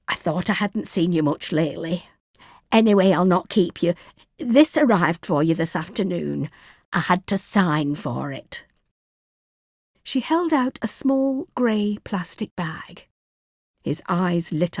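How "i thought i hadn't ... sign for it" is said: put-on Yorkshire accent. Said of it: "thick Yorkshire accent of his neighbour".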